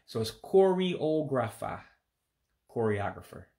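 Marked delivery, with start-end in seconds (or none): 0.3-1.8 Igbo accent. Shown as a demonstration. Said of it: "an E sound when you pronounce it".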